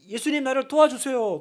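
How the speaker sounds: imitated urgent cry for help; urgent plea. Blind man begging Jesus for help, urgently. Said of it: "그렇게 급박하게".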